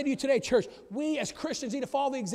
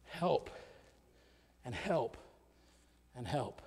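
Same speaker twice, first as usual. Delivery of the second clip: fading repeated word; 9 semitones lower, 8 dB quieter, much slower than usual. Acted. Quiet repeated word after climax.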